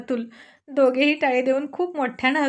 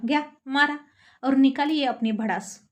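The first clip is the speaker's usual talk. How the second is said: sulky pout. Acted. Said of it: "थोडा गाल फुगवूनच".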